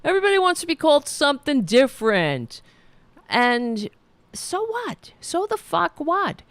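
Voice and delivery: mock him rolling his eyes at new labels; mock annoyed grumble. Coworker scoffing at new names, imitated in a high mocking voice. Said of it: "he kind of decided".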